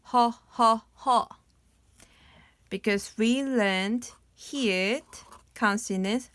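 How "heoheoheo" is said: hearty low ho-ho laugh like a dad; deep fatherly laugh. Shown as a demonstration. Teacher showing how the father laughs, hearty chuckle. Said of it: "That sounds is just laughing".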